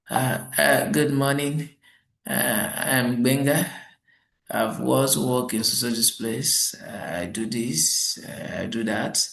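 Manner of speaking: slow, halting mumble with uhs; hesitant candidate. Retold or imitated. Mimicking the tongue-tied candidate at his interview, slow and halting. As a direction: stumble through it like a nervous applicant. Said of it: "This guy is not even speaking".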